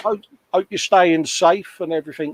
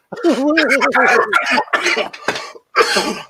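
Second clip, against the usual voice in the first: fanboy giggle; 10 semitones higher than usual. Retold or imitated. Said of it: "like a little fanboy in the background going".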